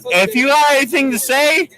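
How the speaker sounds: ordinary talk, nothing marked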